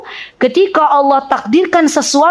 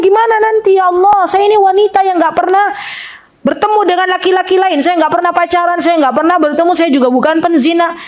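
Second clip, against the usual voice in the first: higher, mildly bewildered pleading; bewildered Maryam; 3 semitones higher than usual. Retold or imitated. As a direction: lightly voice a confused woman questioning God. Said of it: "Maryam bingung".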